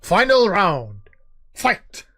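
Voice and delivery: booming arcade announcer calling the round; fighting game announcer. Retold or imitated. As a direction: announce the final round like Tekken. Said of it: "with the Tekken eight announcer voice".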